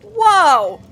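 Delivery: high, taken-aback innocence; high hammed-up surprise; mock surprised Harry. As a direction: play dumb and startled. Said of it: "he's like".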